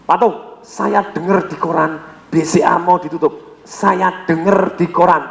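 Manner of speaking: a slow, hesitant client quoting the paper; worried client. Retold or imitated. A lightly voiced worried client phoning his banker, slowly. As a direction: drag it out like an anxious client. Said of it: "ngomong gini".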